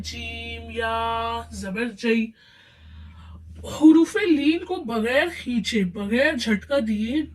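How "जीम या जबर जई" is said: slow spelling of जीम या जबर जई; slow spelled-out reading. Shown as a demonstration. Teacher demonstrating to students, slow and careful. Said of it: "हम इसको भी ऐसे ही पढ़ते हैं".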